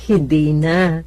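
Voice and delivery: laughing. Acted. Laughs telling she's healed.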